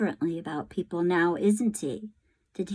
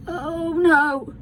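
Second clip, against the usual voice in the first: dismayed cry; 9 semitones higher, 4 dB louder than usual. Acted. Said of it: "said Bryce".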